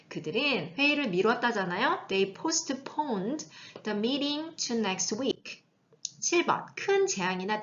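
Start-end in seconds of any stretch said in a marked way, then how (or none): 2.1-5.6 very slow English sentence; slow model reading. Shown as a demonstration. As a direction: read slowly word by word. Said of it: "teacher model reading".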